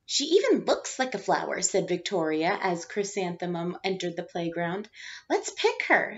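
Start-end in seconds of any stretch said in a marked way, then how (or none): 0.1-1.6 higher, mocking schoolgirl voice; teasing girl. Victoria mocking Chrysanthemum in the playground, higher mocking voice. 5.3-6.2 put-on much higher, taunting little girl; mocking girl. Rita taunting Chrysanthemum in the playground, high squealing mockery.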